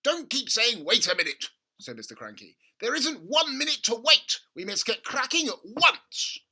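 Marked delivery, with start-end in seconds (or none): 0.0-1.5 much higher, much louder excited dad; gushing over a money-making idea; excited father. A narrator's reading. Father urging his son at breakfast, excited. Mr Cranky voiced. 2.8-6.4 much higher, much louder excited dad; gushing over a money-making idea; excited father. A narrator's reading. Father urging his son at breakfast, excited. Mr Cranky voiced.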